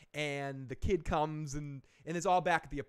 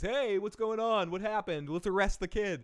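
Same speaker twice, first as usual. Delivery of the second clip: higher, louder mock cop; pushy cop partner; 6 semitones higher, 5 dB louder than usual. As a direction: barge in like a bossy cop. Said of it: "shows up from the cop and goes".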